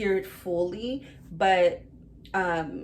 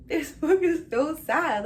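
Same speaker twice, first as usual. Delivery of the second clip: laughing lament; 10 semitones higher, 5 dB louder than usual. Retold or imitated. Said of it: "And I'm like".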